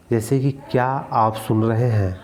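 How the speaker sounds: क्या आप सुन रहे हैं with क्या lifted as a question; stress on क्या. Shown as a demonstration. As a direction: lean on क्या. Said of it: "तो यहाँ पे क्या निपात है".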